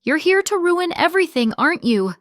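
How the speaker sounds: high, loud cutting snap; a sharp accusing snap; snapping. A narrator's reading. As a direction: bite the words off sharply. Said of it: "she snaps".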